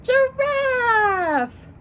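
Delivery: put-on excited kids' shout; shouted answer. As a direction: shout it out with the class. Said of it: "Shout it out".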